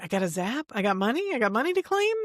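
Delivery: rising, incredulous questions as an amazed newcomer; mock amazement. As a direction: play a newbie who can't believe the windfall. Voicing newcomers amazed at first zap.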